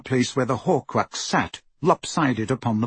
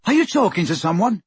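calling out; 6 semitones higher, faster than usual. A narrator's reading. Ron calls through wall.

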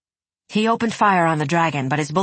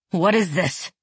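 demanding. Acted. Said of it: "Nikolai demanded".

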